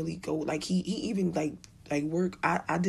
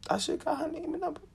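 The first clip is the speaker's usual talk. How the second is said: same words pitched higher; high regretful repeat; 10 semitones higher than usual. Shown as a demonstration. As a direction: say it again, higher and wistful.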